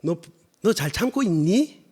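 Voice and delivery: slow Seoul-style question with rising 있니; careful, drawn-out Seoul intonation; standard Seoul speech. Shown as a demonstration. Preacher redoes God's question for listeners, slow standard Seoul speech. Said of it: "태생은 서울인데".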